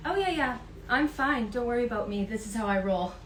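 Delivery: put-on a playful South African accent, breezy; imitating South African accent. Host imitates the student's South African accent, breezy and light. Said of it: "her beautiful accent".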